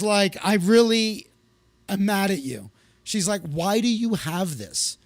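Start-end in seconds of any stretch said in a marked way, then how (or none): 0.4-2.7 mock indignation, loud burst then easing; imitated anger. Horrified friend confronting him over a singer's albums, imitated anger. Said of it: "And she was horrified". 3.4-5.0 slow, mildly appalled question; imitated horror. Horrified friend finding his albums by a singer, mild imitated disbelief. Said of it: "And she was horrified".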